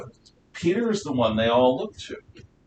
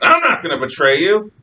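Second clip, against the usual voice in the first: raised, louder vow of loyalty; loudest protest; 4 semitones higher, 6 dB louder than usual. Acted. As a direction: outdo everyone else protesting. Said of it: "And Peter's the loudest".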